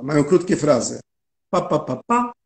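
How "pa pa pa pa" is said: Pa, pa, pa, pa as separate short beats; punctuated syllables. Shown as a demonstration. Translator showing a four-syllable musical phrase, punctuated syllables. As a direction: tap out each "pa" on its own, detached. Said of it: "jeszcze wypunktowane".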